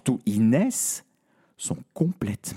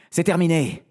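raised, high exclamation; triumphant cry; 8 semitones higher, 4 dB louder than usual. A narrator's reading. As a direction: declare victory, pitched up. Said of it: "crie Amaury, triomphant". (cri triomphant, voix plus aiguë)

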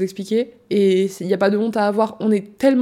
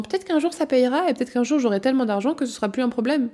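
higher dreamy hopeful voice; wishful thinking; 5 semitones higher than usual. Retold or imitated. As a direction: daydream about future riches. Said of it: "en me disant".

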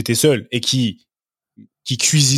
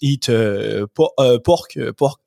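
put-on hesitant French-accented English; much slower than usual. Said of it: "avec mon accent, mon anglais un peu boucaque".

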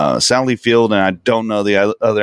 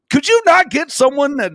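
ordinary delivery

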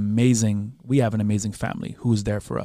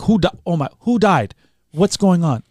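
alarmed wife; 6 semitones higher, 5 dB louder than usual. Retold or imitated. Wife alarmed seeing him cry.

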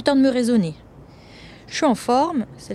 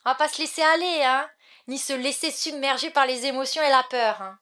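pep talk; 3 semitones higher, 4 dB quieter than usual. Real, not acted.

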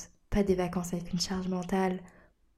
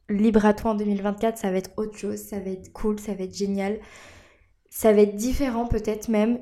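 ordinary talk, nothing marked

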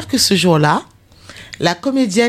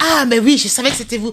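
surprised recognition; 6 semitones higher than usual. Retold or imitated. Stranger recognizing her voice.

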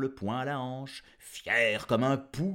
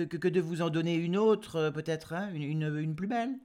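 embarrassed innkeeper; 4 semitones higher than usual. Acted. L'aubergiste annonce le malheur.

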